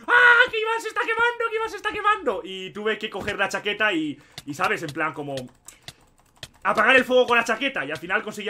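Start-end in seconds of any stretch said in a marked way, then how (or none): 0.1-2.4 high, loud mock scream of panic; retold panicked scream. Retelling how the class screamed that he was on fire, mock panicked scream. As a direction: imitate the class shrieking in alarm. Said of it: "toda la clase chillando en plan".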